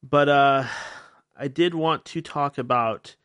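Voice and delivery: ordinary talk, nothing marked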